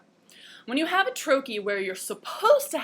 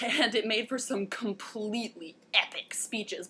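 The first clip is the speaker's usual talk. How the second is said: whispered aside. Acted.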